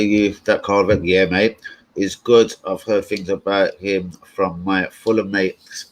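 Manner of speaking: slow robotic monotone reading. Real, not acted. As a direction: read it out like a robot. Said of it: "why did I read that out like a robot".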